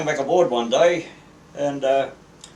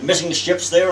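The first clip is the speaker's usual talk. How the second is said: raised, high-pitched scolding; captain berating a seaman, loud; angry captain; 6 semitones higher, 6 dB louder than usual. Retold or imitated. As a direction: retell a loud dressing-down. Captain berates young seaman for excuse.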